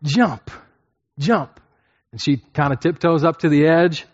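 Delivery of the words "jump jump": put-on high, bright coaxing to a little girl; coaxing dad. Dad in the pool coaxing his little daughter to jump, high and loud. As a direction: call her to jump into your arms. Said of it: "and you're saying".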